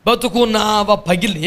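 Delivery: slow, half-recited mocking quote of lyrics; quoted song objection. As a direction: repeat the lyric disapprovingly, barely sung. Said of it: "ఏం మాటలు ఏ?". (పాటను ఆక్షేపిస్తూ వల్లించడం)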